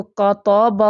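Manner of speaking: کتب dragged slowly, letters made heavy; کتب stretched slowly and thickened; wrong way demo. Shown as a demonstration. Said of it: "ایسے نہیں پڑھنا".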